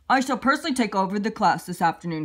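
lightly voiced pompous principal; a hint of a stiff headmaster; stuffy principal. Principal speaking.

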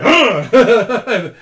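put-on a loud barked "huh" to spook the kids; loud monster-scare grunt; sudden scare shout. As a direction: jump out at them with a short loud huh. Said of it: "and then I would be like".

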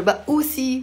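put-on high playful scare for a child; peekaboo. Shown as a demonstration. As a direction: pop out with a teasing boo. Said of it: "like at the peekaboo".

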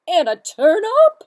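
high, loud silly duck; squeaky duck voice. Acted. Duck's line in story.

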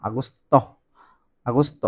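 আগস্ত as a-GOS-to; Italian agosto. Shown as a demonstration. Teacher modelling Italian August, careful pronunciation. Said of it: "বলতেছে আগস্ত".

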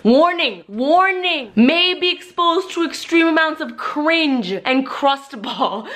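mock warning. Host warning viewers about old pictures, mock alarm. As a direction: sound the cringe alarm like a siren. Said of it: "Let's Embarrass the Crap Out of Lily".

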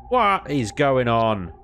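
slow, incredulous complaint; fed-up slow whine; exasperated disbelief. Real, not acted. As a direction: drag out the question in disbelief.

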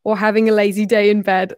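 attempted Australian accent drifting British; Australian accent slipping into British. Shown as a demonstration. Reading about lazy winter days, Australian accent going British. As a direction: let the imitation Australian accent slide towards British. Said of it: "I'm going into British now".

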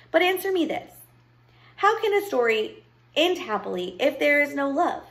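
high-pitched, pointed challenge; challenging question. Acted. Storyteller asks the child about love, challenging. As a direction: press the listener for an answer.

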